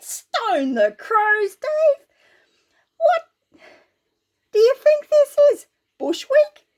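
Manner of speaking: high, slow teasing voice; mocking big brother. Bazza mocking Dave, high slow teasing voice. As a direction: Bazza ribbing his little brother. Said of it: "he laughed his head off and said".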